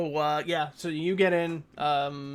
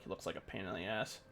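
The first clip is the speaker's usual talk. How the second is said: leaning in; 5 semitones lower, 10 dB quieter, faster than usual. Acted. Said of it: "he kinda leans to you, he's like".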